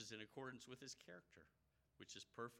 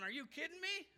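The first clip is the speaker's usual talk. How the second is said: high, louder outraged "are you kidding me"; exasperated disbelief; 5 dB louder than usual. Retold or imitated. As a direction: Jonah fuming that everyone repented. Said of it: "He's going".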